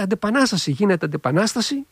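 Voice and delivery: half-shouting the guards' cry; retold shout. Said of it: "φωνάζουν, λέει". (μισοφωναγμένη κραυγή των φρουρών)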